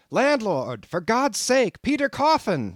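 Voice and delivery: high panicked shout; frantic, high-pitched cry for rescue; shouted for help. A narrator's reading. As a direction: yell for the landlord in terror. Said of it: "shouted I".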